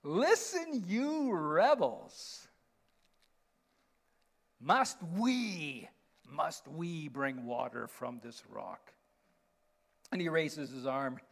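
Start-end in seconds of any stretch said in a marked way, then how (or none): 0.0-8.9 exasperated, mock-angry Moses scolding the people; hammed-up frustration at the rebels, rising loud; worn-out leader losing his patience with the crowd; frustrated Moses. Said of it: "It's kinda like".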